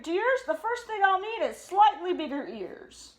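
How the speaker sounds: high, loud, eager dad bear; bursting with a big idea; excited Papa Bear. Acted.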